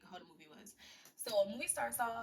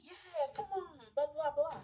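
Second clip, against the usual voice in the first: mild mock scream; 7 semitones higher, slower than usual. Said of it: "she screams".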